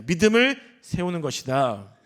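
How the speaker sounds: slow, emphatic motto for a congregation to repeat; repeat-after-me statement. Shown as a demonstration. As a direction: state "믿음을 세우는 것이다" slowly and firmly. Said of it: "따라해 보겠습니다".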